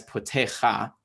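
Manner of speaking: potecha with an extra open "kha" syllable at the end; misreading demo. Shown as a demonstration. Teacher showing students a likely misreading, mispronunciation demo. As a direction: say potecha as if a hey ended it. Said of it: "you might read this as".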